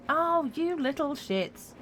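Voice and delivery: high, laughing mock outrage; laughing exasperation. Real, not acted. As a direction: cackle in exasperated disbelief. Enemies reappear, laughing outburst.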